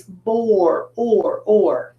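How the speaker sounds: "bore, or, or" with O and R as one sound; blended r-controlled sound. Shown as a demonstration. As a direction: sound out "or" as one unit, repeated. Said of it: "You're not gonna see the O and the R".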